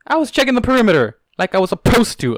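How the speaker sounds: loud, high angry snarl. A narrator's reading. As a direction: bite back at Ebony furiously. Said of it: "Aurora snarled".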